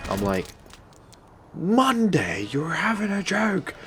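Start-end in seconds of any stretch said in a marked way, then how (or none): 1.5-3.7 high, breathy disbelief, almost whispered; can't believe it's only Monday; incredulous. Retold or imitated. Told repair only on Monday.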